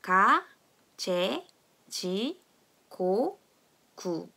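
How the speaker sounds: "가, 제, 지, 고, 구" spaced out for repeating; G drill. Shown as a demonstration. Teacher leading a read-along, separate syllables "가, 제, 지, 고, 구". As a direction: read "가, 제, 지, 고, 구" one syllable at a time. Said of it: "다 같이 한번 읽어보겠습니다".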